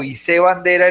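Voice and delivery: hice said as i-SÉ; stress on last syllable. Shown as a demonstration. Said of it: "dónde pongo los acentos".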